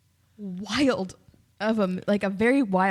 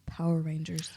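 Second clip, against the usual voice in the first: dramatic whisper; 4 semitones lower, 4 dB quieter than usual. Pretend. Dramatic reveal of show.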